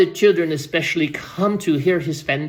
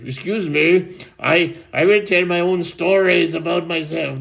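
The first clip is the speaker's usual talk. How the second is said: lightly voiced objecting creature; interrupting creature; 3 dB louder than usual. Listening creature objects to stories about itself, lightly put-on voice. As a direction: cut in on the storyteller as a put-out creature. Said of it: "the Garumphatoms who was there listening said".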